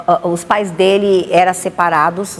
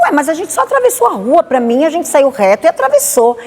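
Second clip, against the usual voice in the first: baffled; 7 semitones higher than usual. Retold or imitated. Puzzled, lost bus station.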